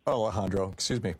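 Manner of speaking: talking through hiccups; hiccuping. Real, not acted. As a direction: hiccups breaking the words. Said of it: "I'm hiccuping".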